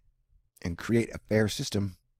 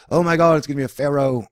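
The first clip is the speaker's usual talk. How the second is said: mildly hammed-up panic, raised and louder; mock alarm; 4 semitones higher, 6 dB louder than usual. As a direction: parody an alarmed conspiracy believer. Mocking conspiracy believers' alarm.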